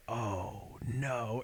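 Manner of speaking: low, hushed "uh-oh" voice; small, deflated voice of acted dread; mock dawning dread. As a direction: let it sink in, very softly. Retold dawning dread after overdosing.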